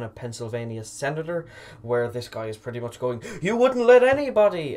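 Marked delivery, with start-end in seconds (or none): 3.4-4.8 high, loud angry yell imitating a heckler; imitated furious outburst, pitched way up; aggressive shout. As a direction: shout it like an aggressive man confronting a senator. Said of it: "just shouting at this guy".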